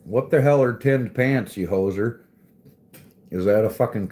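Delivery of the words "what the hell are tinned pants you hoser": loud, higher, hammed-up disbelief; joking loud outrage at a viewer's odd word; mock outraged shout. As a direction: bellow it in fake outrage at the chat.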